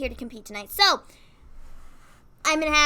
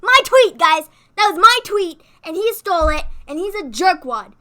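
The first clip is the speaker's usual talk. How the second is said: mock outrage; 5 semitones higher, 10 dB louder than usual. Playful complaint to viewers.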